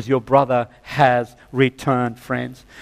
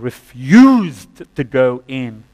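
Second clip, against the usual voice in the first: stubborn refusal; 6 dB louder, much slower than usual. Acted. Preacher acts out the son's refusal.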